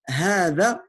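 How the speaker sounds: "hada" mit lang gezogenem erstem a; lange erste Silbe. Shown as a demonstration. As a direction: stretch the first vowel of "hada", haa-da. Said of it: "La première syllabe est longue".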